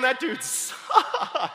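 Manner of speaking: SUCKED dragged out at length; long comic drawl on SUCKED; stress on sucked. Real, not acted. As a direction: stretch sucked as the punchline. Same drawn-out punchline.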